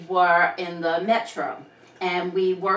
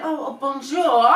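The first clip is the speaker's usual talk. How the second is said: higher, laughing hurried "bonjour"; flustered bonjour; 6 semitones higher, 5 dB louder than usual. Retold or imitated. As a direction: catch yourself and blurt it out. Sister-in-law's flustered reply.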